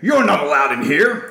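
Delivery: firm, loud warning; stern man voice. Acted. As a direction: point and forbid them. Stern carnival man forbids entry.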